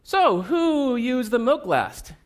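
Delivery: slow, probing detective questioning; detective interrogation. Retold or imitated. Dad turning detective over the spilled milk, slow and probing. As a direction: draw it out like a suspicious detective. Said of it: "I turn into a detective".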